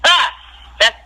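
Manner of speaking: hammed-up bellowing laugh with a sneer; retold bellowing laugh. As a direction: laugh in her face like she's ridiculous. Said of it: "it was like a bellowing".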